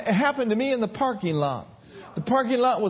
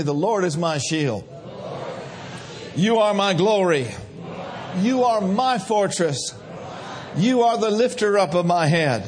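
said strong. Shown as a demonstration. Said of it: "Say it real strong with me".

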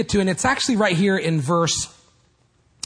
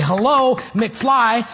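mild mocking call, raised and louder on the hello; Biff; 4 semitones higher, 4 dB louder, much slower than usual. Preacher quoting a movie bully, mildly mocking. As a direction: lightly imitate a film bully's taunt. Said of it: "a guy named Biff, and he would come".

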